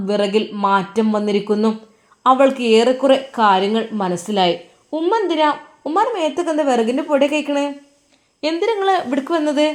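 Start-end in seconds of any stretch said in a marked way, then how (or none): 4.9-9.7 higher, fast, pressing questions; probing daughter-in-law. Acted. Daughter-in-law quizzing the dusty mother, higher and fast. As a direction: pin her down, quick and high.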